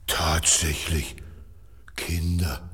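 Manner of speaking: hushed surprised whisper. Acted. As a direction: whisper so nobody hears. Elephant peeks at children. (flüsternd)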